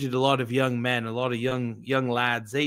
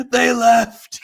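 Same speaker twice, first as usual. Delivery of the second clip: high, loud hammed-up wail; mock breakdown; 11 semitones higher, 9 dB louder than usual. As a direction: fake a breakdown on stage, much higher. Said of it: "pretending to have a mental breakdown".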